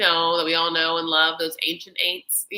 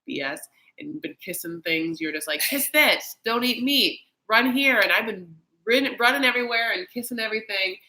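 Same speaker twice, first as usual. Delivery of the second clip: exasperated rant; 3 semitones higher, 6 dB louder than usual. Retold or imitated. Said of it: "He's like".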